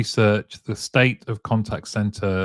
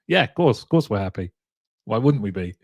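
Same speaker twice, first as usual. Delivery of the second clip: mock happy decision-maker; faster than usual. Host joking as those who made the decision, mock assured. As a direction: play breezy self-justification for laughs.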